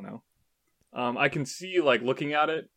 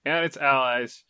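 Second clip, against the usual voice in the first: trailer voice; 3 semitones higher than usual. Acted. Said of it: "If you read any game description in that voice".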